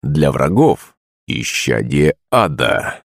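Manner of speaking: a beast smirking at a frightened lady; smirking monster. A narrator's reading. Monster Kuzma reassures the princess, low smirking voice. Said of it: "усмехнулся Кузьма".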